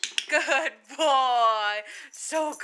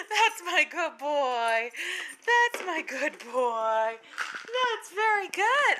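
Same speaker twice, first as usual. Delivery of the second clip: tender praise; slower than usual. Real, not acted.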